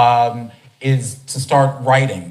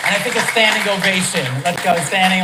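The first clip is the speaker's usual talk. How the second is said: pitched up, fast and eager; rally the crowd to its feet; excited call for a standing ovation; 7 semitones higher than usual. Real, not acted. Host urging a standing ovation.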